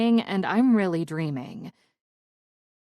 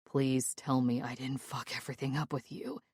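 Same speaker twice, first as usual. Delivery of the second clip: begging; 4 semitones lower, 7 dB quieter than usual. Acted. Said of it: "he begs".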